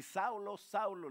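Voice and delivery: llamada fuerte y alta desde el cielo; llama como un trueno que retumba; voz del Señor como trueno. Acted. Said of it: "como una voz de trueno". (la voz del Señor llama a Saulo, tronando)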